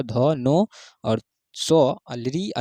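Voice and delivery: धो नो सो drawn out very slowly; slow letter demo. Shown as a demonstration. Teacher slowly recites the dental letters. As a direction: stretch each letter slowly. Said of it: "उसी प्रकार से".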